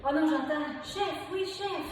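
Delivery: high, loud soldier reply; mock army recruit. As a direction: bark back like a drilled recruit. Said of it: "coach answers as class". (imitation d'une recrue militaire, aiguë et forte)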